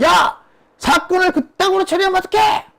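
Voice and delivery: imitating a high-pitched, bellowed dressing-down; furious mock yell. Angry president phoning his minister about the case, yelling. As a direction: yell it high, like a boss blowing up. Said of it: "고래고래 소리 질렀다는".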